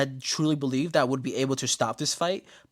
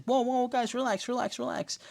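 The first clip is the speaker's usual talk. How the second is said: calming voice; 10 semitones higher than usual. Retold or imitated. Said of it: "Lottie's like".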